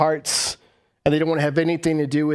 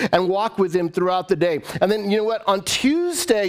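ordinary talk

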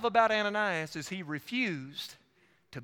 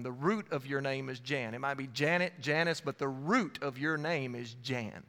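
low, softer, measured announcement; lowered voice, weighing each word; solemn call-out; 4 semitones lower, 5 dB quieter than usual. Retold or imitated. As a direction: address the room gently and deliberately. Retells calling out someone from congregation.

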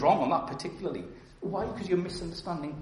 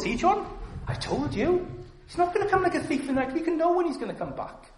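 high-pitched, loud know-it-all impression; mock gloating objector; 14 semitones higher, 5 dB louder than usual. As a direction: crow it like a told-you-so, pitched way up.

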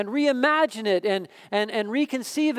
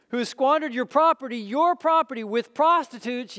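put-on resentful older son; 4 semitones higher than usual. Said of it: "the older brother became angry".

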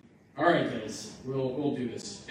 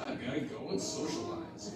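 giddy Boaz. Acted. Boaz excited, pitch jump.

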